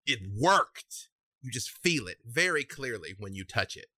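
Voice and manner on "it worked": excited triumph. Acted. Voicing a happy feeling just described.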